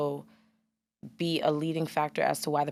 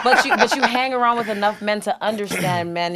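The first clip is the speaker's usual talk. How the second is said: laughing; 5 semitones higher, 12 dB louder than usual. Real, not acted. Laughing protest over the host.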